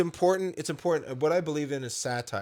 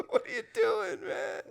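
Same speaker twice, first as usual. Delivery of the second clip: high Irish exclamation, mock disbelief; Irish accent. Irish cop asking drunk brawlers what's going on, high Irish accent. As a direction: squeak it out like an Irish local. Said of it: "that was a really good accent".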